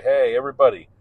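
mock-enthusiastic teacher opening day; cheery teacher. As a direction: greet sixty students like a peppy instructor. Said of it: "when I would say".

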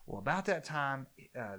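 usual speaking voice

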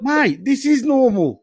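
put-on slow, broad Australian accent; put-on Aussie accent. Teased about his talk, hammed-up Aussie accent. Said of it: "Can you talk normal".

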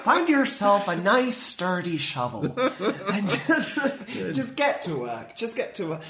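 slow mock Irish pitch, breaking into laughter; deadpan Irish advert, cracking up; put-on Irish accent, taking its time. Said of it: "I'm doing an Irish accent".

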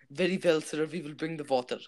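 put-on Russian waiter accent. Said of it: "not being racist with this accent".

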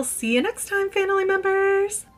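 high sing-song sign-off. Acted. Signature sign-off.

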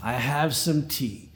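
put-on Yiddish accent. Old Jewish man in joke.

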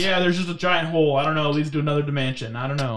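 a hint of Southern in a shrugging explanation; Southern accent. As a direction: slip into a mild Southern accent. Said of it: "I don't know why they got Southern".

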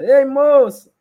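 high, loud mock call to a girl; hammed-up call out; woman's call imitation. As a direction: shout it like the prank caller.

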